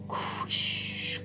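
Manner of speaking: unvoiced-soft shushing sound; soft 'shh' for quiet; hushing. Shown as a demonstration. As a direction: hush the room gently. Acting out being quiet.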